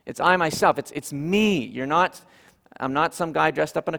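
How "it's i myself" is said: I given a falling accent; stress on I. Shown as a demonstration. Pastor repeating Jesus' words, stress on I. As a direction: lean on I. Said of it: "Do you see the emphasis there".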